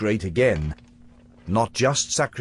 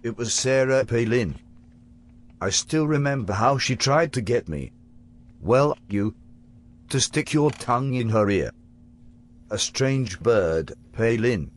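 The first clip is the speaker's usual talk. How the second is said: put-on British accent, lightly done. Future Harper to his younger self, in a put-on British accent. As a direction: future self playing a posh Brit. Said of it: "You adopted this accent as part of your disguise".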